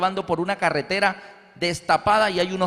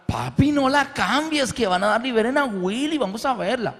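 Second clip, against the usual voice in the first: put-on children pleading; 5 semitones higher than usual. Niños piden la película.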